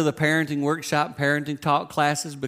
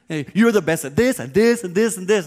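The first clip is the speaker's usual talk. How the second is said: higher, louder, overdone praise; gushing parent; 5 semitones higher, 6 dB louder than usual. Retold or imitated. Parent over-praising their child, gushing. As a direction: lay the flattery on thick. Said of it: "made me wanna gag".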